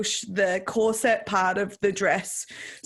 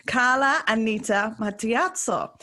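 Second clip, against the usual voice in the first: name said with an Italian accent. Real, not acted. Host introduces herself on her podcast, Italian accent. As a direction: give your own name its Italian pronunciation. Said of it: "put the Italian accent on".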